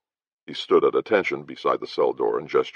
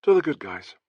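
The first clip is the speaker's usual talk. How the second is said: soft toast; 14 semitones higher than usual. Acted. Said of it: "said softly".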